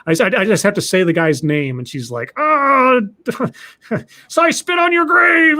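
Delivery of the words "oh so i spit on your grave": high, loud, through laughter; laughing exclaim. Retold or imitated. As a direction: blurt the title, amused. Sister reacts laughing to story.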